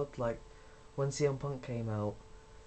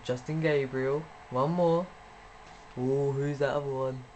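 excited; 5 dB louder than usual. Real, not acted. Straining to name them all.

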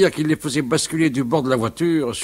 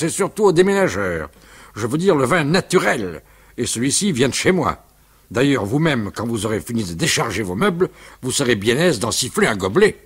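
loud voice. Acted. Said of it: "Il parlait d'une voix forte".

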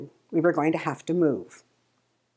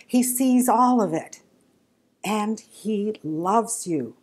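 gentle sermon refrain. Acted. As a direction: reassure each listener in their pain. Preaching refrain to listeners.

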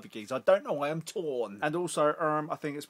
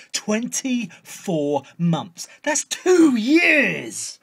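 exasperated; 8 semitones higher, 13 dB louder, much slower than usual. Acted. Exasperated about phone contract.

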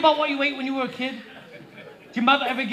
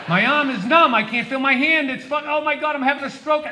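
louder, rising alarm; mock panic; 3 semitones higher, 4 dB louder than usual. Comic hypochondriac panics over a numb arm. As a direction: play a hammed-up stroke scare.

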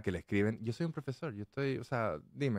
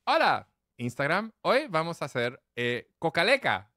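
mock influencer intro; 4 semitones higher than usual. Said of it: "expertos digitales de marketing digital diciendo".

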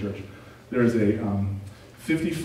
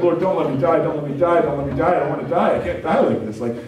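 mock panicked prayer; 2 semitones higher than usual. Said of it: "I'm basically crying behind this wheel".

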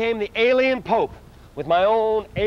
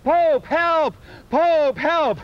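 calling out; 4 semitones higher, much slower than usual. Retold or imitated. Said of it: "and I call out".

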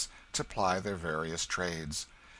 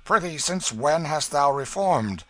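loud, higher, drawn-out disbelief; surprised; 7 semitones higher, 9 dB louder than usual. A narrator's reading. Hugo to the King who won't beg, surprised. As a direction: question it in mocking surprise. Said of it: "eyeing the King with surprise".

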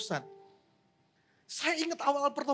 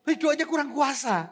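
retold complaint; 4 semitones higher, 7 dB louder than usual. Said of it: "aku bilang gitu".

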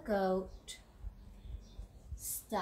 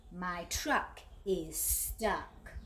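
slow grumpy complaint; 3 semitones lower, much slower than usual. Acted. Angry duck complaining to sheep, slow and glum. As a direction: drag it out slowly and glumly. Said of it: "he snaps".

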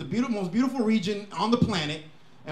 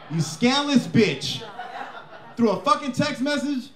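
mock outrage; 4 semitones higher than usual. Ranting at ex-girlfriend.

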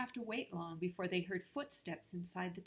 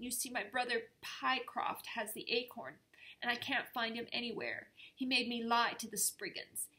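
pleading; 4 semitones higher, 3 dB louder than usual. Acted. Peabody pleading his excuses.

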